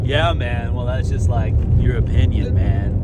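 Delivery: easygoing surfer-hippie voice, lightly done; hippie buffalo voice. Retold or imitated. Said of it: "my best hippie buffalo impression".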